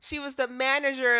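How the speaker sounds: excited recognition. Acted. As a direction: cry out the name as it clicks. Sudden recognition.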